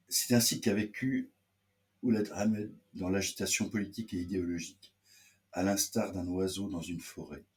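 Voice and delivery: formal back-cover reading; measured, announced read-aloud voice. Acted. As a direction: read the book's blurb out to listeners.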